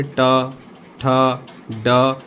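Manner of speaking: टा, ठा, डा each said separately and drawn out; pronunciation demo. Shown as a demonstration. Teacher showing students where the tongue touches, demonstrating slowly. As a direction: sound out टा, ठा, डा one by one, slowly. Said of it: "उच्चारण करके देखिए".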